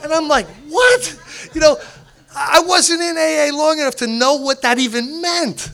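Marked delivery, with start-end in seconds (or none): 0.7-1.2 high-pitched baffled question; retold bafflement. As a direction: squeak it out, totally lost. Acts his confusion at the pigeon remark.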